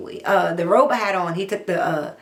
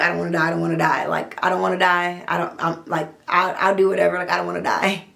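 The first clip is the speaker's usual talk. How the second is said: pleading; faster than usual. Retold or imitated. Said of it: "bravery went out the window".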